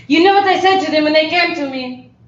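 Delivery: put-on French accent. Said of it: "see a scene of that character".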